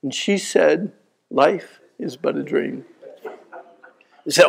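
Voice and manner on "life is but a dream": put-on slow, softer old lady voice; slow wistful grandmother; dreamy grandma. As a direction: drift off gently. Grandma's refrain after song.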